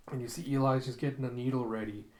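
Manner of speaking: plain reading voice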